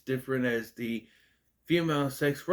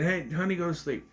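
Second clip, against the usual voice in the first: imitating casual talk to a partner, pitched higher; casual endearment; 4 semitones higher than usual. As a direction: toss it off like a sweet aside. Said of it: "not just saying".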